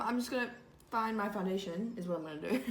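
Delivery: usual speaking voice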